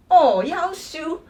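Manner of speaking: high, loud, drawn-out gasp of surprise; shocked exclamation. Acted. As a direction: blurt it out stunned. Example skit, shocked recognition. (拖长声惊讶大喊)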